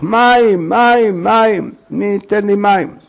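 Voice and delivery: acted cry of desperate thirst. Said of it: "התחיל לצעוק".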